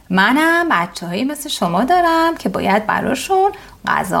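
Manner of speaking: lightly voiced sparrow. Mother sparrow reassures frightened chicks, lightly voiced. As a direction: lightly play the kind sparrow calming the chicks.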